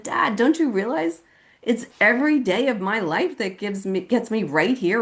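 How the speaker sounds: earnest pleading. Retold or imitated. Daughter answers her crying dad, earnest high-pitched plea.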